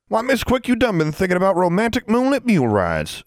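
very high, mock-romantic teasing voice. A narrator's reading. Burton teasing Miss Quick about moonlit rides, mocking. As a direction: tease in an exaggerated high pitch.

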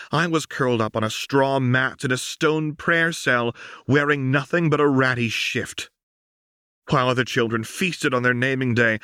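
lightly voiced, bitter daughter; bitter Lux. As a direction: lay out every hardship. Lux recounts her harsh upbringing.

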